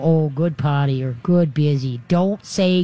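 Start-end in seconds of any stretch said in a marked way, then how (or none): 0.0-1.0 reward the dog without exciting it; calm praise. Shown as a demonstration. Owner calmly praising the dog after it goes. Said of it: "you calmly go". 1.2-2.0 calm praise. Shown as a demonstration. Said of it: "you calmly go".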